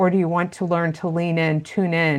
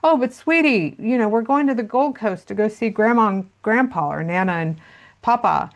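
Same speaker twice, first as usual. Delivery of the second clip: higher, sing-song coaxing mother; sweet mom voice; 5 semitones higher than usual. Retold or imitated. Mum on the plane coaxing her crying child, high and sweet. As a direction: coax the upset child like a sugary mum. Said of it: "And the mom said".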